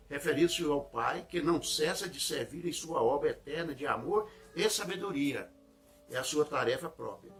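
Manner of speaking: measured, declaimed devotional reading; leitura solene de sermão. Acted. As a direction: read the passage out deliberately, with weight. Reads Emmanuel's text aloud. (leitura devocional pausada)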